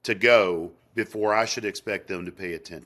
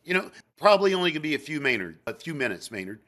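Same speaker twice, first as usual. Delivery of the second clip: higher, louder, rushing pushy coworker asking a favor; 6 semitones higher, 4 dB louder than usual. Retold or imitated. Coworker interrupting the salesperson's call time, higher and louder. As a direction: barge in like an eager coworker who needs help now.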